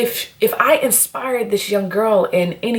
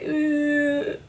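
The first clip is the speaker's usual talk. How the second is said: whine; 6 semitones higher, 6 dB quieter than usual. Retold or imitated. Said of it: "he used to whine".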